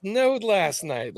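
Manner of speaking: slow, shivering with cold. Real, not acted. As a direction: speak as if freezing. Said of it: "I am so very cold right now".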